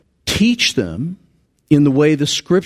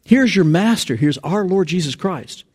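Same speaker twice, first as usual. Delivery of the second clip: acted indignation; 6 semitones higher than usual. Preacher voicing an offended funeral-goer, indignant. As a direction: object as if scandalized at the intrusion. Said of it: "You would be really indignant at that".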